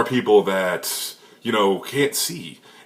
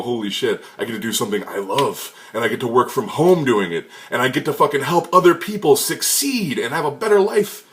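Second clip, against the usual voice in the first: delighted; 3 semitones higher than usual. Retold or imitated. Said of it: "wake up every day and go".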